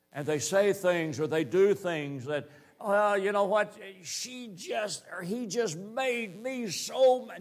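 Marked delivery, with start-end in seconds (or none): 2.8-7.4 higher, half-mock flustered blame; a lightly voiced sinner making excuses; mock angry excuse. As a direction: act out someone blaming others for their temper.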